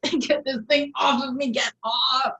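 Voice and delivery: panicked shout. Acted. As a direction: yell to get the clamp off. Clawing at his foot clamp.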